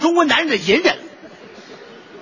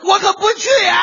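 mock crying refusal; 9 semitones higher than usual. Dead mother's mock refusal.

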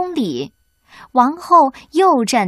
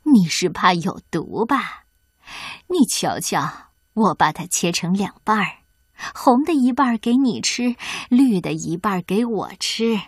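sly coaxing hag; 2 semitones lower than usual. Acted. 农妇哄骗白雪公主.

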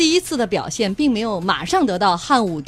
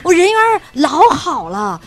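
Henan dialect; 4 semitones higher, 4 dB louder than usual. Retold or imitated. 卜氏 answers in Henan voice.

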